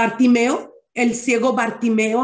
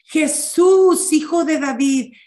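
retold shout; 3 semitones higher than usual. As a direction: call out for mercy, not at full voice. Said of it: "Y dice que él gritaba, le gritaba".

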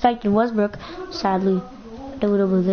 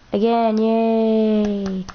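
sarcastic; much slower than usual. Real, not acted. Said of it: "I'm not being sarcastic".

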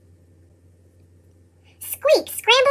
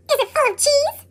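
snorting; 8 semitones higher, 5 dB quieter than usual. Acted. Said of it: "Squeak snorted".

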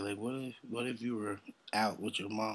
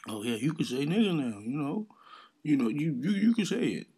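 rising higher and louder, mock generosity; mocking permission; 5 semitones higher, 6 dB louder than usual. Mimicking the rapper giving a podcast guest a pass, mocking. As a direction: mimic him handing it out, ever higher.

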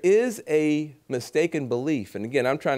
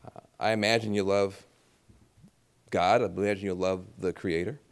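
soft, low, confiding; gentle coaxing; 5 semitones lower, 5 dB quieter than usual. Retold or imitated. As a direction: lean in and coax them quietly. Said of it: "I often ask people, I say".

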